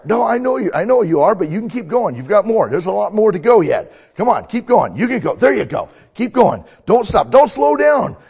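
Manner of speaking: high, loud coaching yells; coach shouting encouragement. Acted. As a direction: drive the runner on hard. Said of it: "I'm gonna be a coach".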